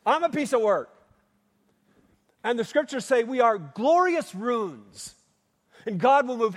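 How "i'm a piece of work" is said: louder, teasing jab at a neighbour; playful teasing. Shown as a demonstration. Preacher has congregation tease the person next to them, playful. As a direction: tease your neighbour with a grin in the voice. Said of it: "turn to the person next to you and say".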